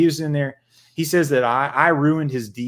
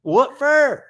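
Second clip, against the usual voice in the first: much higher, louder cartoon squawk; South Park voice; 12 semitones higher, 6 dB louder than usual. Host finishes South Park gag, high cartoon squawk. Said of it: "he's like South Park".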